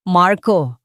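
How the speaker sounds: loud cry of a name; shaky shout. Acted. Jane shouting at her drunk husband, loud and frightened. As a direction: call him out, frightened. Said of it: "sigaw ni Jane, ang boses ay nanginginig".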